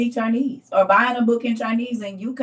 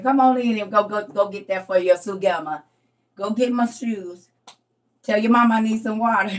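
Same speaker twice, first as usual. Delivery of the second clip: grandma giving orders; 2 semitones higher, 6 dB louder than usual. Pretend.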